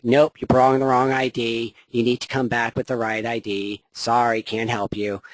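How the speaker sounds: a hint of a fed-up DMV clerk refusing a customer; unhelpful DMV clerk. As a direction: brush them off like a bored DMV clerk. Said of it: "Marge Simpson's sisters who work in the D M V".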